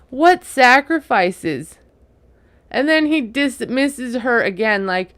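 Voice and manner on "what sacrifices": mock incredulous. Mocking his dismissive quote.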